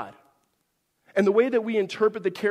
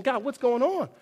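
somewhat arrogant; 7 semitones higher than usual. Retold or imitated. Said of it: "talking to God somewhat arrogantly".

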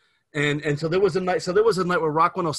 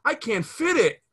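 put-on high, slow, breathy-free coy girl voice, louder; girl in the commercial; 5 semitones higher, 5 dB louder, slower than usual. Man retelling radio ad, voicing the girl's coy plea. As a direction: play the flustered girl in the ad, drawn out. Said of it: "you hear a girl say".

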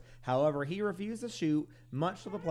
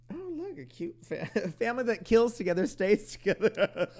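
cheery sign voice; 7 semitones higher, 7 dB louder than usual. Retold or imitated.

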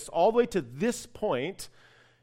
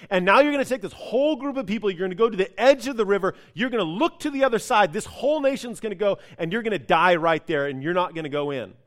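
lightly voiced God, rushed; faster than usual. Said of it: "God's gonna say".

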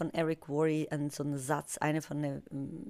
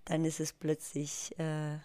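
hoarse tired voice; raspy whisper; 4 dB quieter than usual. Real, not acted. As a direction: croak through a worn voice. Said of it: "die Stimme weg". (heiser, Stimme fast weg)

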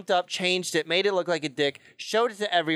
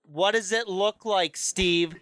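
higher, menacing boss voice; angry boss; 5 semitones higher than usual. Retold or imitated. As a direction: threaten the employee like a mob boss. Boss threatening employee Steve.

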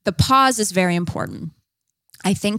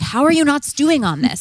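exasperated disbelief; 7 semitones higher, 4 dB louder than usual. Retold or imitated. Exasperated wife about calm men.

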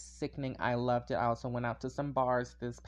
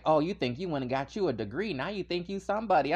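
mock reading; 3 semitones higher, 4 dB louder, faster than usual. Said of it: "they start trying to read you".

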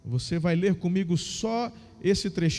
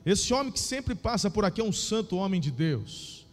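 lively Bible reading, raised pitch; story narration; 3 semitones higher than usual. Acted. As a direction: read the story with feeling.

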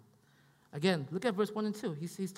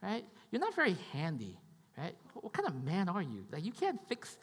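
nagging wife; 4 semitones higher than usual. Retold or imitated. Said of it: "She'd be like".

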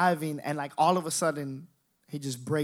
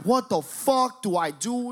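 mock panic; 7 semitones higher, 3 dB louder than usual. Thirteen-year-old facing a drug test, retold high panic. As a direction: wail it like a panicking teenager. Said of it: "I'm panicking".

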